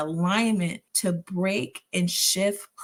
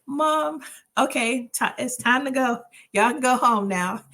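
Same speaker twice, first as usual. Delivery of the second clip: irritated dismissal; 5 semitones higher, 4 dB louder than usual. Retold or imitated. Sending family away, irritated.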